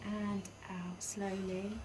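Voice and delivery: whispered breathing cue. Real, not acted. Calm whisper coaching breathing.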